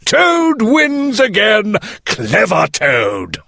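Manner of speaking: high, slow gloating Toad. Acted. Toad crows about escaping, high and slow. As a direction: savour the win, crowing.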